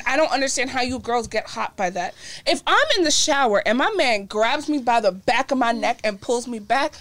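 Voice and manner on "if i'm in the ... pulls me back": scared and angry. Pretend. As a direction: swing back, yelling. Acting out shower grab reaction.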